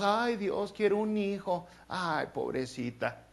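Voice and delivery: a light hint of a self-pitying pray-er; a mild mock of a believer pitying herself; mock pleading believer. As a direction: lightly whine like someone begging God. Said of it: "ahorita creemos".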